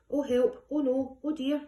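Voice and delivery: 3 gasp it out like a worried storyteller; 1 mock alarm. A narrator's reading. 4 narrator telling children of vanishing eggs, mock alarm.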